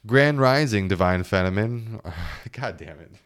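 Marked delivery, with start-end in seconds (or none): 0.1-2.0 smarmy spiritual guy. Retold or imitated. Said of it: "those toxic spiritual men".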